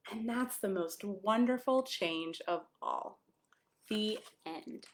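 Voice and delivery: gentle picture-book read-aloud; storybook voice for a small child. Acted. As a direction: read it like a bedtime story to a little one.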